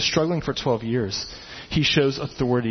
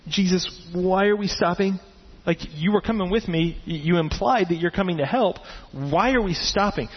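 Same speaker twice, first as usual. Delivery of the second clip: upset; 4 semitones higher than usual. Retold or imitated. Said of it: "I'd be kinda upset going".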